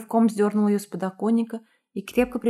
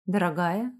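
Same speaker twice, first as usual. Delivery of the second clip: displeased; 3 semitones lower than usual. Acted. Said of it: "недовольный голос Мигеля".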